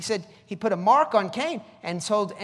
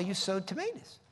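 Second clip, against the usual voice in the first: ordinary talk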